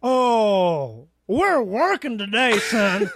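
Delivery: replayed smug landlord. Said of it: "Let's do it again. I'll be you".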